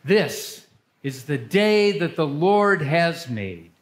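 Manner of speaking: measured, solemn worship leading; liturgical reading. Acted. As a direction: lead the congregation's prayers.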